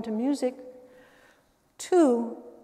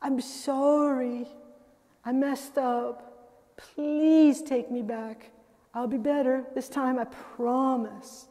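gentle pleading; much slower than usual. Retold or imitated. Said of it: "She's saying to a sweetheart".

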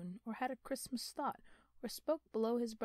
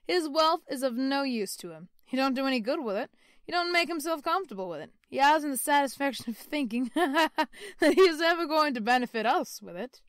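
loud, high, quick cheerful man; jolly nephew; 5 semitones higher, 11 dB louder than usual. Acted. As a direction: rattle it off with amusement. Nephew speaking merrily of Scrooge.

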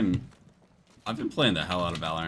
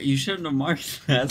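mocking quote; 6 semitones higher, 5 dB louder than usual. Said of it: "you're like".

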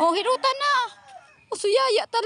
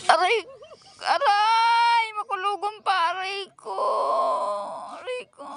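crying in pain. Real, not acted. Child crying in pain at massage.

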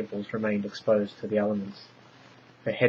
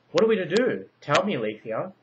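much higher, pleading cry; desperate plea; 8 semitones higher, 5 dB louder than usual. A narrator's reading. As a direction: beg the wise one for help. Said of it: "Potaniah pleaded".

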